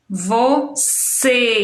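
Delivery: "Você" by syllables, closed ê ending; closed E sound. Shown as a demonstration. Teacher giving circumflex example, "Você" split and closed. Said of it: "C é um som fechado".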